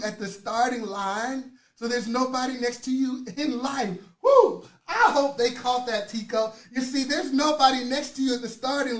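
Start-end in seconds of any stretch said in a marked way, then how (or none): 4.2-4.7 loud high "woo"; excited whoop. Real, not acted. Coach whooping mid-pep talk, excited high whoop. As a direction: let out a sudden high whoop.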